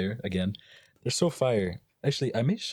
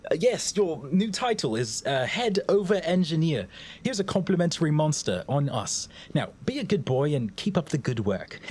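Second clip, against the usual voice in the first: put-on boss with an accent; 7 semitones higher than usual. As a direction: greet him like a grand boss. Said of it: "why do you have an accent?".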